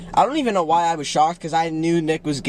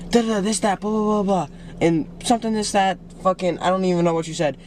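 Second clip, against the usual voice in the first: imitated angry rant; 3 semitones higher than usual. Retelling his brother's rampage, imitated angry rant. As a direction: rattle off a mock rant, pitched up. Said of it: "He got angry, and he was like".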